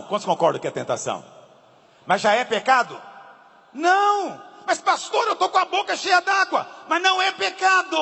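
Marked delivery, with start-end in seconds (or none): 3.7-8.0 emphatic exclaim. Real, not acted. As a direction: drive the point home to the crowd. Preacher exclaims to congregation.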